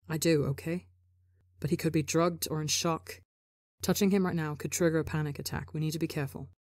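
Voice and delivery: a touch of calm reassurance; steady and even, talking him down. Acted. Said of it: "George says calmly".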